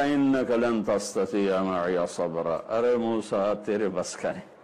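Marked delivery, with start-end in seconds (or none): 0.0-2.8 slow, stern recitation of the rebuke. Acted. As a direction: lay down the warning firmly and slowly. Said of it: "بڑے سخت لہجے میں کہا".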